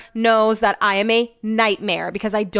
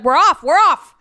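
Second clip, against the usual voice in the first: excited coworker; 6 semitones higher, 6 dB louder than usual. Retold or imitated. Coworker's excited text, voiced.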